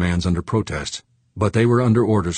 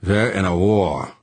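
snapped; slower than usual. Acted. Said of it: "Fuchs snapped".

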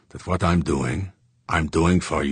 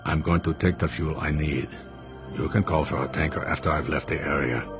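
venomously low; 2 semitones lower, 5 dB quieter than usual. Acted. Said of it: "His voice venomously low".

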